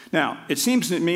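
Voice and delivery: "seems" lifted and leaned on; stress on seems. Shown as a demonstration. Lecturer to audience, stressing "seems" in his claim. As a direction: lean on "seems" to hedge the claim. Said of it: "and I emphasize the word ver-, the, the, the verb seems".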